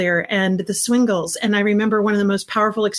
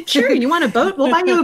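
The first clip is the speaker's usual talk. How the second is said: mock indulgent; 7 semitones higher, 3 dB louder than usual. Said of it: "And you're like".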